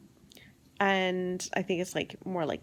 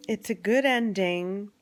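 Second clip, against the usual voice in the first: normal talking voice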